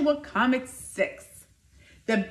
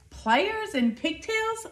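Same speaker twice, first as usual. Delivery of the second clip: crowd roar; 8 semitones higher, slower than usual. A narrator's reading. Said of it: "roared the crowd".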